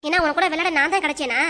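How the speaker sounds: mildly angry rebuff; irritated. Acted. Mother refusing her child's plea to play, irritated. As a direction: brush the child off crossly. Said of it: "ஏன் இப்ப என்னாச்சு இப்படி கோவப்படுறீங்க".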